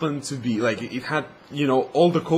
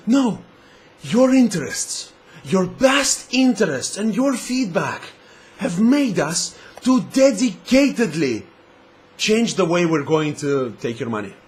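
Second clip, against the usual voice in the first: mock corporate spin; 3 semitones higher, 3 dB louder than usual. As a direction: fake the sincere company line. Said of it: "you're gonna say".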